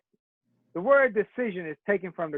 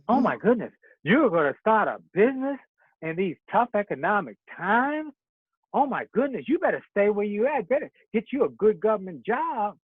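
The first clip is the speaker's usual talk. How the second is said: mock discouraging relative. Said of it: "suffer from possibility blindness".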